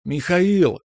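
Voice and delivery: put-on high, long-held girlish call; singing out a name to summon someone; drawn-out call. A narrator's reading. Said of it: "С протяжным зовом".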